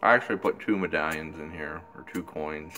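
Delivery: talking around pipe stem; clenched teeth speech; pipe in mouth. Real, not acted.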